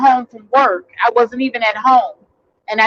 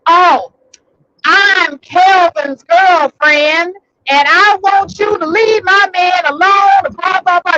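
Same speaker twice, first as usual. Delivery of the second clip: mock girlfriend; 6 semitones higher, slower than usual. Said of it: "So she goes".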